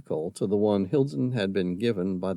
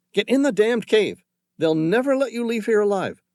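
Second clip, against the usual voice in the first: raised, forceful command; fierce and emphatic; 12 semitones higher, 5 dB louder than usual. Acted. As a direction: hammer the order home. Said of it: "John's words were fierce and emphatic".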